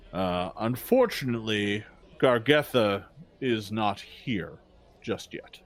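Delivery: a hint of a formal, wary orc at the gate; orc guard. Orc guard answers the visiting party, lightly voiced and measured. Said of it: "the orc looks at you and says".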